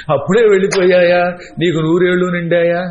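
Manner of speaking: lightly mocked mourner's wail; a hint of sing-song keening; imitated lament. Mourner addresses the one who has just died, mock lamenting. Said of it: "అలా ఏడవడం".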